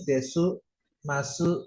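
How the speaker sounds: desu and masu with the final u sounded; u pronounced. Retold or imitated. Student asking about anime speech, final u pronounced. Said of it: "kok u-nya dibaca tuh".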